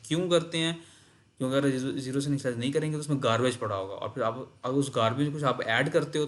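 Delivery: ordinary delivery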